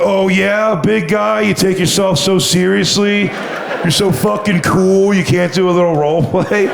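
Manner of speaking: high-pitched taunting impression of a friend; mocking friend. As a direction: goad him with a whiny-high mock challenge. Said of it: "He was like".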